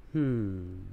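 knowing hmm. Retold or imitated. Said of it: "Things that make you go".

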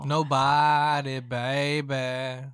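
nasal R and B croon; pinched nose impression. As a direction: sing it through the nose, slowly. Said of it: "I would love that nasally voice".

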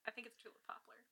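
hushed, unvoiced whisper; whispered guess. Guessing the friend's tree aloud, whispered. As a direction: whisper your guess like a secret. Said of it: "I'm like".

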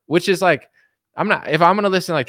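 usual speaking voice

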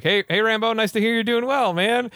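a hint of a sneering captor; Russian officer. Russian officer taunting Rambo over the radio, lightly mocking. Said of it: "And he's like".

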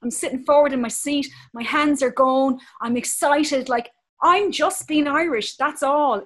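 lively, emphatic Irish passion; animated and passionate. Real, not acted. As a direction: talk with eager, forceful Irish energy. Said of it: "I'm really animated and passionate".

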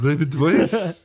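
slow, loud mock frog croak; croaky frog voice. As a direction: drag out the ribbit like a frog. Echoing frog joke.

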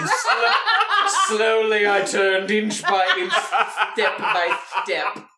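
slow and ominous, laughing; slow, dramatic recitation. Pretend. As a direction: drag it out with mock menace. Quoting a comic routine.

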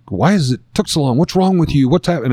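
a hint of insistent wife voice; mock interrogation. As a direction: fire questions like an agitated wife, lightly mimicked. Imitating wife's barrage of questions.

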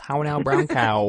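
crisp elocution-drill voice; prim precise elocution. Shown as a demonstration. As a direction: enunciate each word like a speech coach. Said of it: "What was that voice thing".

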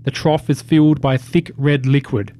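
measured, deliberate scene-setting; game master narration. A narrator's reading. Game master reveals a defiled room to the players, measured narration.

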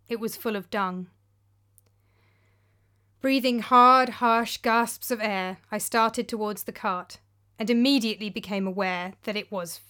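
measured, dramatic storyteller's delivery; story narration. A narrator's reading. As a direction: read it out as a first-person tale, pausing between phrases. Narrates her short story.

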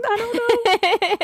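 high, slow and drawn-out DJ voice; radio DJ voice. Pretend. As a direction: stretch it out like a radio host. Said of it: "Is that what you wanna sound like?".

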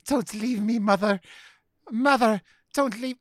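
high, pleading clingy-pet voice; Weasel. Acted. Host voices the cat begging mother to stay, high mock pleading. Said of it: "Weasel is just like".

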